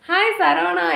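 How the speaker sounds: cheerful loud hello; loud greeting. Real, not acted. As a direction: call out the name brightly. Greets viewer loudly on live. (உற்சாகமான உரத்த வணக்கம்)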